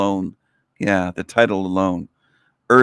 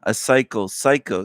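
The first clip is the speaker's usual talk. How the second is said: mocking quote. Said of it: "just this part".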